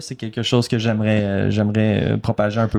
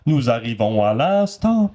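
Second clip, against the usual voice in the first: slow, put-on theatrical sign-off; casting voice. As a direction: end the call slowly in grand character. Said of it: "j'avais cette voix de casting-là". (voix de casting, lente)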